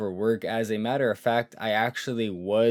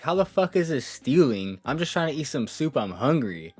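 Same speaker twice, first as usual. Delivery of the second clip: indignant, higher at the start; mildly heated retelling of an argument; retold mad rant; 3 semitones higher than usual. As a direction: imitate yourself going off at the manager. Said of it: "I'm mad as hell".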